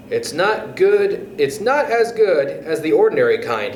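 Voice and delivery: talking through a mouthful; mouth full. Acted. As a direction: say it while chewing food. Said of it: "talking with his mouth full".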